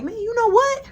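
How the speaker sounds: high, loud burst of indignation, easing down; riled-up ranting, retold; heated venting. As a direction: work yourself up over a tough guy. Teller vents about Christopher.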